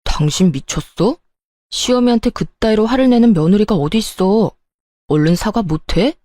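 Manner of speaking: mildly acted marital anger; angry husband. Husband demanding his wife apologise to his mother, mildly angry. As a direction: scold as an affronted husband, understated. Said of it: "저에게 화를 내기 시작하더군요".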